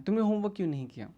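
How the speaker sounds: quick, mildly accusing question; taunting teacher. Acted. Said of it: "वो उसे ताने मार रहा है". (ताने भरा तेज़ सवाल)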